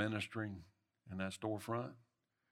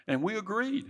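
rising shout; 10 semitones higher, 6 dB louder than usual. Acted. Preaching climax.

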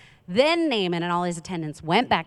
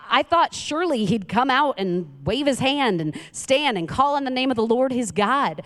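mildly indignant, higher-pitched complaint; acted indignation; 5 semitones higher than usual. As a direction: voice his wounded expectations in a raised pitch. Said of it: "went away angry".

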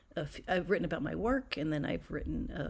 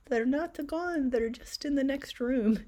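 put-on Sicilian accent; 9 semitones higher, 7 dB louder than usual. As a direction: imitate grandmother in a Sicilian accent. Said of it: "in her Sicilian accent".

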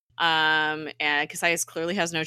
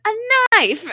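loud retold little-boy exclamation; playful, punched-up announcement; mock excited shout; 8 dB louder than usual. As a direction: blurt it out, imitating the kid in the meme. Retelling meme of boy with knife.

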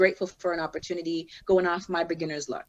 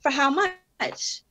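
high, drawn-out suspicious question; incredulous; 6 semitones higher, much slower than usual. Retold or imitated. Rapper learning her song is on iTunes, incredulous. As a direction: stretch it out slowly, pitched up in disbelief. Retold shock that song is sold.

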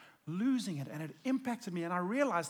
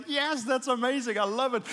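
excited God; 5 semitones higher, 8 dB louder than usual. Retold or imitated. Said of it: "I'm sure he was so excited".

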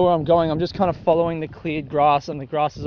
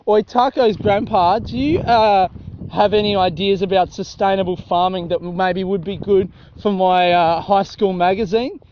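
lightly voiced nosy student; mock schoolkid. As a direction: pretend to be a kid interviewing. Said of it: "kids going down there asking".

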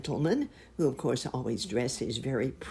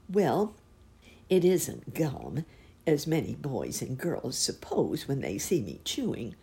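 cow lady explaining. Acted. Cow voiced.

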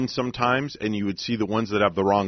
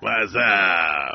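Whassup yell. Retold or imitated. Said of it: "you loved the".

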